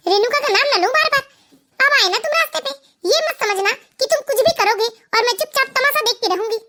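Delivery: mock him by repeating his order; mocking echo. Wife mocking husband's demand not to say Renuka's name, sarcastic.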